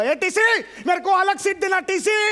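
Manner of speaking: calling out. Acted. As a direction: shout down the carriage for help. Calling the ticket checker across train.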